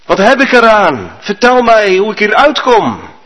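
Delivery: desperate man calling from a well. Acted. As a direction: call upward for help, pleading. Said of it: "En ik riep naar omhoog".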